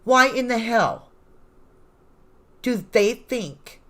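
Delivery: indignant outburst. Real, not acted. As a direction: let the outrage out, word by word. Outraged at prosecution's claim.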